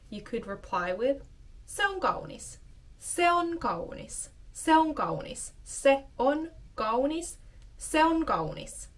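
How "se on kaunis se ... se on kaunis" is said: admiring compliment. Pretend. Complimenting a friend's new bag.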